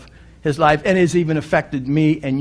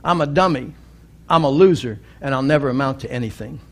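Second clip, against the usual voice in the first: trailing off faster at the end; resigned acceptance; 4 semitones lower, faster than usual. Retold or imitated. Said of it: "and he said".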